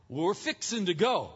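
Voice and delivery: put-on touch of North Carolina Southern accent. Locals answer the visiting preacher, mild mimicked Southern accent. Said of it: "they had all these accent thing".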